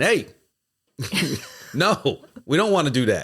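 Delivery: mild called-out voice. Explaining she prefers face-to-face over Teams messages, the speaker does retelling a yell. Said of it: "I'll just lean over and start yelling".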